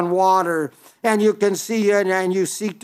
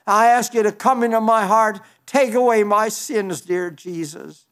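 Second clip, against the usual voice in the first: sample prayer. Pretend. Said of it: "you know him personally by saying".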